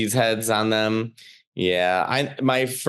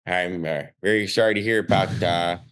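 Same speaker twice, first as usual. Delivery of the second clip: put-on lower, halting Chicago accent with D for TH; Uncle Mike; 5 semitones lower than usual. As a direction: token condolence in a South Side Chicago uncle's accent. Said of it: "my Uncle Mike. First thing out of his mouth".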